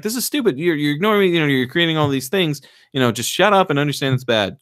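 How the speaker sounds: lightly acted irritated rant; mock exasperation. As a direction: play a fed-up woman scolding. Retelling her exasperated complaint.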